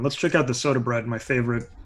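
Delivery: bad Irish accent, barely there; a weak stab at an Irish accent. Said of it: "That's a terrible Irish accent".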